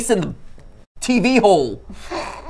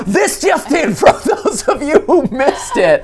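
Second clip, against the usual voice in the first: news anchor; 7 semitones higher than usual. Pretend. Mock news recap of the video.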